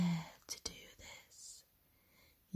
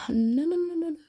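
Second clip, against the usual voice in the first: urgent hushing; 9 semitones higher, 5 dB louder, much faster than usual. Acted. Goddess hushes frightened mortal.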